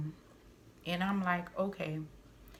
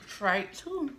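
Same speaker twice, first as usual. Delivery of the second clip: angry exclamation; 6 semitones higher, 5 dB louder than usual. Real, not acted. Heated rant about dad.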